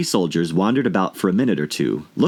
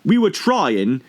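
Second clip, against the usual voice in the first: humble gardener; 7 semitones higher, slower than usual. A narrator's reading. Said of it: "in a very humble tone".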